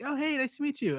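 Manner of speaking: put-on girl voice. Cute girl quoted in story.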